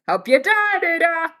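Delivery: loud passing shout with her name; students yelling it. Retold or imitated. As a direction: call it out cheerfully as you walk by.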